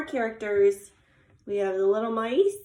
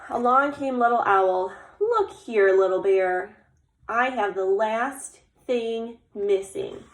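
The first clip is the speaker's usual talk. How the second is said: put-on slow, suspenseful reveal to children; story narration; 5 dB louder, slower than usual. A narrator's reading. Little Owl brings the last missing thing, suspenseful storytelling. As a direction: announce the owl, then stretch out the last line. Reads picture book aloud.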